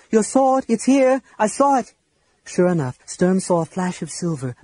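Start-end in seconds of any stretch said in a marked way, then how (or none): 0.1-1.9 high-pitched, excited urgency; urgent exclamation. A narrator's reading. Lorana showing Sturm his lost sword, urgent. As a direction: point it out urgently, voice lifted high.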